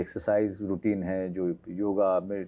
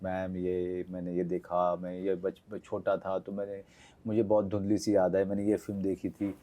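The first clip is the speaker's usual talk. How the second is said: gushing fan; 3 semitones lower than usual. Retold or imitated. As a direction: imitate yourself rambling on to an idol. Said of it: "मैं बहुत बोलने लगा कि". (धीमी, दबी आवाज़ में बोलते जाते फैन की नकल)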